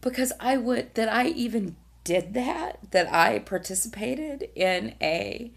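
choked up, voice catching; holding back tears while speaking; verklempt. Real, not acted. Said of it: "I'm gonna get verklempt again".

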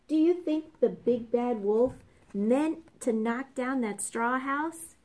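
usual speaking voice

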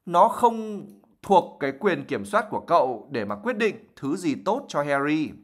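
sharp. Acted. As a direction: cut the words short and sharp. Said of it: "bà Weasley nói một cái giọng rất là đanh".

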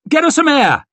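high, urgent crowd shout; calling out. A narrator's reading. Onlooker wants air for fainted woman, high call. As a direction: shout for help high over the hubbub.

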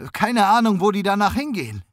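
high, loud anguished cry on Ahnung; high, loud despairing Keine Ahnung, then rushed; desperate. A narrator's reading. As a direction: stress Ahnung, voice breaking upward. Desperate suspect pleading ignorance.

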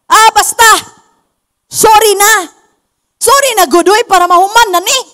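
mildly impatient, brush-off sorry; dismissive apology. Acted. Someone ending a quarrel with a careless sorry, dismissive. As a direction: apologize just to get it over with. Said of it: "ang tao ganito".

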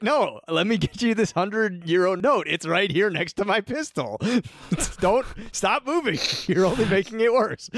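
high, hammed-up threat through laughs; mock menacing Saeed. Saeed taunting the fleeing golfer, high mock menace. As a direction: play the killer oddly cheerful.

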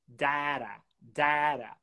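"Data" with the a of "cat", tapped t; ash vowel. Shown as a demonstration. Teacher demonstrates data with the ash vowel. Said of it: "Agora com a vogal ash".

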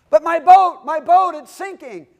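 high, loud hammed-up wail over a sinking boat; mock panic. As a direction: whine it like a panicking sailor.

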